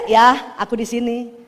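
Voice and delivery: slow, coy reassurance with a laugh; playful slow cooing; coy wife. Shown as a demonstration. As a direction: draw it out playfully, as if nudging a husband. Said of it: "Ibu colek aja".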